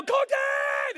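put-on loud high shout after a runaway kid; urgent calling out. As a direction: yell the name across a store. Calling after runaway son while running.

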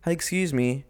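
lightly imitated Italian accent. Driver hailing a walker, light mock Italian accent. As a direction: mimic a passing Italian man, lightly accented. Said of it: "Italian accent, of course".

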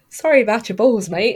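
a light imitation of an Australian accent, a bit quick; lightly imitated Australian accent; mock Australian accent. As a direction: toss it off in a hammed-up Australian accent. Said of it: "Oh, that's so Australian".

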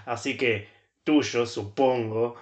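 slow, hammed-up lonely lover; mock sad letter. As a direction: read it like a sulking, lonely boyfriend. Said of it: "me suena que están peleados".

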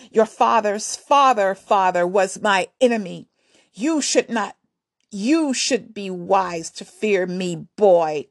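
lightly voiced queen talking down to a boy; scoffing warrior queen. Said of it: "she scoffed".

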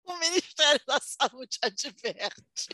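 very slow, formal warning voice; health ad disclaimer. Pretend. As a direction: read it slowly like a government notice.

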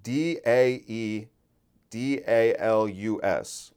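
slow, careful spelling of the handle; dictating a username slowly. Shown as a demonstration. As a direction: spell it letter by letter. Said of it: "That's his at".

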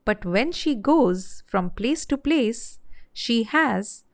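lively, rhythmic narration of a comic poem; storybook verse reading. Acted. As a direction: tell the rhyming tale with measured pauses. Reads comic verse tale.

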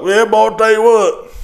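lightly voiced redneck greeting; mock redneck. Comic mocking parking-lot country posers, mock redneck.

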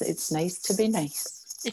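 slow, soft retelling of Billy's motto; quoting Billy. Retold or imitated. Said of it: "And Billy's saying was".

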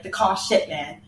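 mock British driver on the radio; bad British accent. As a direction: put on a poor British accent. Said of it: "Stop doing the British accent".

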